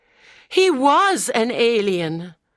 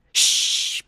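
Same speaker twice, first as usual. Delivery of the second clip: shushing. Acted. Hushing friends in cafeteria.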